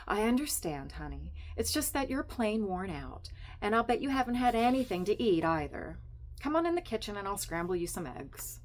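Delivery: high, bright-voiced nosy wife; chatty Estelle. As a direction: gush at Sylvia like a meddling friend.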